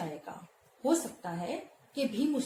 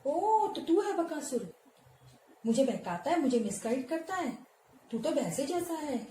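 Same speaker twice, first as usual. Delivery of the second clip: mock the demon cheerfully; playful mockery; 4 semitones higher than usual. Teacher voicing Bhim mocking Bakasur playfully. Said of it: "Bhim ने उसको कहा मस्ती में".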